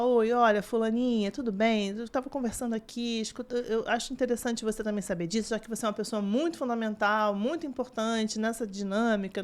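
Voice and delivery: demonstrated sweet, friendly message voice; friendly coaxing intonation. Shown as a demonstration. Nutritionist recording an audio for a child's helper, friendly coaxing. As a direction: greet and gently win the helper over. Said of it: "Tem entonação de eu falar".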